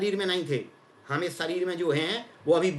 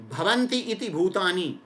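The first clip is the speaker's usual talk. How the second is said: "भवन्ति इति भूतानि" drawn out slowly, each word set apart; slow recitation. Shown as a demonstration. Guru to listeners, explaining word roots, slow measured recitation. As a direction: lay the etymology out word by word. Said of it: "व्युत्पत्ति परक अर्थ बताते हैं".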